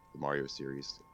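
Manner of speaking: ordinary talk, nothing marked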